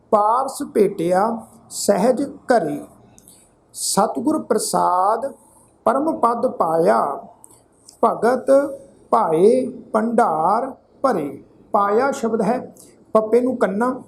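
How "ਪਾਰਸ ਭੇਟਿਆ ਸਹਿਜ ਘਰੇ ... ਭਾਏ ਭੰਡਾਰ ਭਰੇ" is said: slow, measured verse reading with drawn vowels; scripture recitation. Shown as a demonstration. Teacher recites sacred verse to congregation, measured recitation. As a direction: recite phrase by phrase, pausing between.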